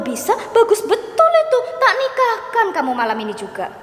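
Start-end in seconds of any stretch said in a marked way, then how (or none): 0.5-2.7 sarcastic jab. Real, not acted.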